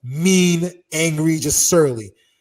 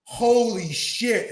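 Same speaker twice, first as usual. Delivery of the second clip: drawn-out stunned exclamation, higher; 5 semitones higher, much slower than usual. Retold or imitated. Onlookers watching a teammate get tackled, stunned. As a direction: let each word stretch in amazement.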